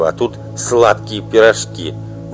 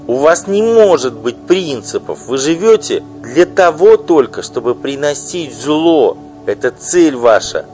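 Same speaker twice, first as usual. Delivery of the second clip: loud, high, bitter tirade; furious wife; 9 semitones higher, 8 dB louder than usual. Acted. Wife denouncing her husband's mistress, furious loud outburst. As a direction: spit out the insults at her rival.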